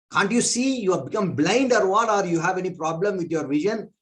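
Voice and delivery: retold annoyed rebuke, peaking on Go away. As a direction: snap at him to go away. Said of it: "He was really annoyed".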